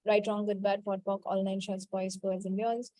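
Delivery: low-key, run-together list; rote recitation. Real, not acted. Healer to her class, reciting a clearing formula by rote. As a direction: recite a memorised formula smoothly.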